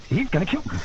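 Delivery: soft mock dread; quiet, retold fearful realization; hushed dread. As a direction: say it under your breath, as if doomed. Retold dread, first of two takes.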